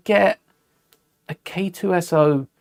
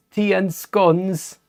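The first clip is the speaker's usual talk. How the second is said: slow, hammed-up posh British accent, a touch higher; mock posh British; 4 semitones higher, much slower than usual. Vlogger listing British clichés, in a slow mock posh British accent. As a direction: drawl it like a stereotype of a posh Brit. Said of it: "I'm British".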